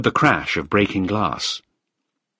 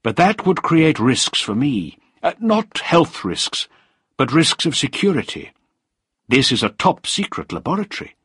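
cool, controlling official; 7 semitones higher than usual. Acted. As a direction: spell out the risks deliberately. Voices Krieger in dialogue.

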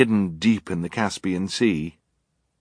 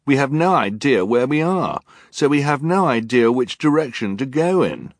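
urgent arguing; 8 semitones higher, 6 dB louder than usual. Acted. Klaus arguing.

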